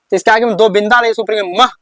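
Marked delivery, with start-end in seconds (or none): 1.6-1.7 "मह" ending in an h breath; visarga as h. Shown as a demonstration. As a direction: read "मह" as ma closed by a short h. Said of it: "ह के उच्चारण में".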